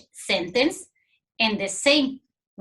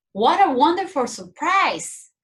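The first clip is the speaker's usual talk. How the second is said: higher, a bright surprised exclamation; delighted surprise; 5 semitones higher, 3 dB louder than usual. Shown as a demonstration. Teacher modelling an exclamatory example, surprised delight. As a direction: sound pleasantly surprised.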